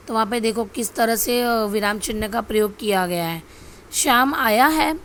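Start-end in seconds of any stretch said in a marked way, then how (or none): 3.9-5.0 slow, higher and louder, mildly astonished; surprise. Shown as a demonstration. Teacher reading an example sentence to students, surprised. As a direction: read it out as an exclamation of surprise. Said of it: "आश्चर्य का भाव".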